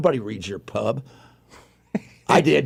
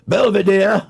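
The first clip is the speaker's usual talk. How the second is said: slow, higher Southern drawl on the name; 6 semitones higher, 5 dB louder, slower than usual. Pretend. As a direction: call the butler in a Southern drawl. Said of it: "We gotta say it in a Southern voice".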